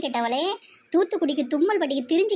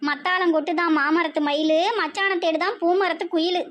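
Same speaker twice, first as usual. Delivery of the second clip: wailing, rhythmic rant of curses; hammed-up lament. Mother bewailing her daughter's married life, mock-tearful lament. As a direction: lament theatrically in rolling rhymes. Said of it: "இவ்வளோ நேரம் அழுதுகிட்டு இருந்தீங்களோ".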